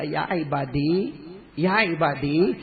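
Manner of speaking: slow, gentle call with a rising end; loving call. Acted. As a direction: call out tenderly, drawing the words out. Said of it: "اللہ اتنا پیار سے بولے گا".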